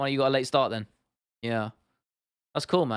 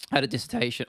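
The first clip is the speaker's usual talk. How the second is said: voice crack; faster than usual. Real, not acted. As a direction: voice cracks on the word. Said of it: "that voice crack".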